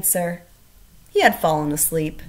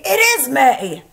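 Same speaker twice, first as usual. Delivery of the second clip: louder, higher joyful cry; he's amazed it's spring; delighted Toad; 6 semitones higher, 8 dB louder than usual. A narrator's reading. Toad climbing out of bed, loud and delighted. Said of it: "said Toad".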